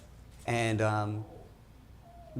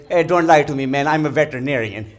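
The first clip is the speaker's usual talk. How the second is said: indignant father; 2 semitones higher, 10 dB louder than usual. Retold or imitated. Father argues back loudly.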